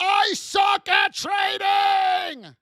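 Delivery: screaming at full volume. Telling listeners what to yell into a mirror, screaming at the top of lungs. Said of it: "scream at the top of your lungs".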